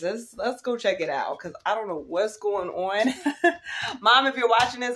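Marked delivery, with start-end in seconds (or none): 3.6-5.0 laughing. Real, not acted.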